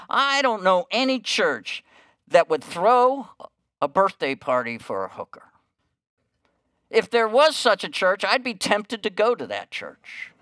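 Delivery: the manager can't believe a church would do this; amazed manager. Acted.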